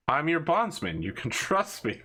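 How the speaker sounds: laughter breaking into the line; laughing in character. Pretend. Bondsman reassures his captor with a knife at his throat, laughing. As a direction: plead for trust through a laugh. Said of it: "I'm laughing, but he's not".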